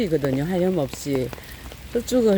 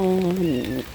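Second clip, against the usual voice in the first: ordinary talk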